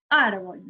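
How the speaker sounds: ÁRBOL said whole, leaning on ar; stress on first syllable. Shown as a demonstration. Teacher testing a word's stress, ÁRBOL stressed on ar. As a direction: let the weight fall on the AR of ÁRBOL. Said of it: "La sílaba tónica es ar".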